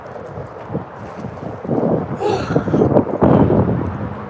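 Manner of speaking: long, winded exhale; heavy sigh. Real, not acted. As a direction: let out a long breathy sigh. Winded from walking.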